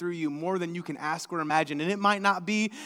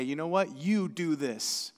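quiet charge; 4 semitones lower, 6 dB quieter, slower than usual. Acted. Jesus quietly entrusting disciples.

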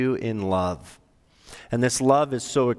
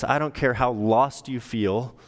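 tender God; 2 semitones lower than usual. Retold or imitated. God comforts the lost listener, gentle and reassuring. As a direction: soothe a lost child as God would. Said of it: "who says to us".

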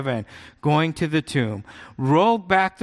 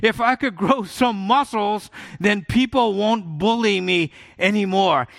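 put-on higher, eager young boy; hopeful kid voice; 4 semitones higher than usual. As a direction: play the hopeful boy he once was. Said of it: "I was saying".

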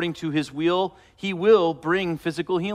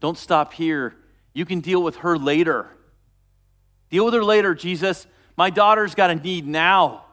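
urgent pleading, louder toward the end; urgent pleading father; 5 dB louder than usual. Retold or imitated. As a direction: beg Jesus to hurry, rising to a loud plea. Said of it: "you can imagine Jairus the whole time going".

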